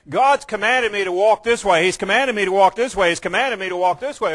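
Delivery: quick, insistent repetition; hammering out the same command, mimicking dutiful obedience; mock dutiful recital. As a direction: drum the order out by rote, fast.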